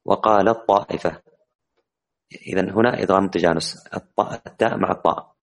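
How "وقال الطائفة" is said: "وقال الطائفة" recited slowly with the ta fully merged into a heavy doubled ta; slow tajweed demo. Shown as a demonstration. Teacher slowly recites a Quran example of idgham mutajanis. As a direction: draw out "الطائفة" so the merged heavy ta is clearly heard. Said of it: "مثل".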